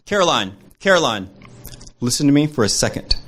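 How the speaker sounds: a hint of a mother calling her daughter; lightly voiced mom, gently calling for attention; imitating their mom. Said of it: "waiting for my impression of their mother".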